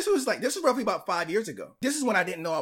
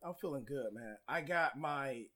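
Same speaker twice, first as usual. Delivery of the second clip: talking through a retainer; words slurred round a retainer; wearing a retainer; 5 semitones lower, 6 dB quieter than usual. Real, not acted. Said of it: "if I sound a little weird, people, I have my, my retainers in right now".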